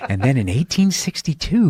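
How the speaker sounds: overdone storyteller inflection; audiobook narrator voice. Retold or imitated. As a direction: read it like a dramatic audiobook. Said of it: "with the inflections and the voice".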